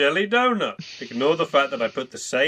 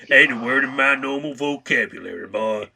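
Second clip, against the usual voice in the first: put-on cowboy accent. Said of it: "sounds more like a cowboy".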